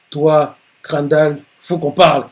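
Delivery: a touch of irritation, slow on toi; lightly annoyed rival calling him out; understated annoyed threat. Acted. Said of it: "Il dit ça d'un air énervé". (menace à peine énervée)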